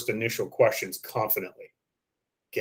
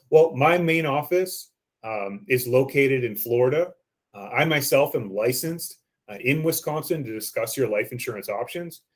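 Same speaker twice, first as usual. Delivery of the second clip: softer, genuine. Shown as a demonstration. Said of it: "you're changing your voice a little bit there at the end. You're trying to be a little bit softer".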